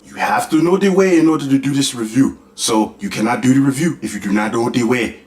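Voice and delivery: lightly put-on accent, insisting on "the way"; mock African accent. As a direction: keep up the meme accent, stubborn. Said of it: "I might as well join in too".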